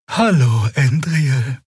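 lightly voiced weary healer says hello; weary old healer. A narrator's reading. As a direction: greet her friend, worn out. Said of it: "Sie klang matter als sonst".

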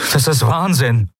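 Kai, lightly voiced despair; exclaimed. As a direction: cry out in disbelief. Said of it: "rief er".

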